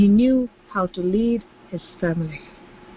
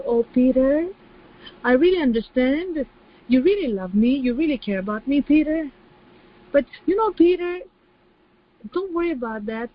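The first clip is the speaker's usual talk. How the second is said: high, syrupy and soothing; mock tender Jesus; 4 semitones higher than usual. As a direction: pretend Jesus coddling a tearful Peter. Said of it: "Didn't say".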